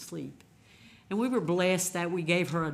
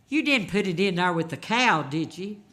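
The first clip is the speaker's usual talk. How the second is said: louder, lightly voiced old mother; a touch of his mother's concern, raised; mother's worried question; 3 semitones higher, 10 dB louder than usual. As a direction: mildly imitate her fretting. Mother presses son about cow.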